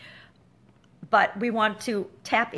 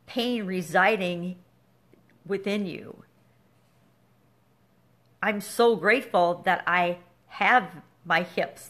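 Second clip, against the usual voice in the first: sincere gratitude. Shown as a demonstration. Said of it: "I will say in my head".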